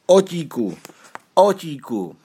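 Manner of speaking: high, excited call of a name; joyful hail to a lost companion, narrated. A narrator's reading. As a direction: call across a distance, falling at the end. Michal spots and calls his cousin.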